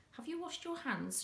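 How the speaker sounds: sugar-coat it like a mum hiding a temper; asked sweetly. Acted. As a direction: Mum sweetly checking the boys washed their hands. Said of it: "she asked sweetly".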